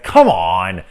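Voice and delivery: loud, fed-up groan of a line; exasperated "come on". Retold or imitated. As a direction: throw your hands up at the screen. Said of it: "I literally was, like, out loud".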